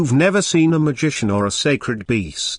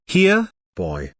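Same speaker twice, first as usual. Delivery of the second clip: calling a pet; 5 semitones higher than usual. Acted.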